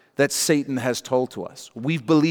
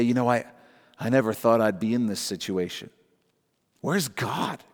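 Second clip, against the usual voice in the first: mock despair; 4 semitones lower, 4 dB quieter than usual. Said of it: "He doesn't say".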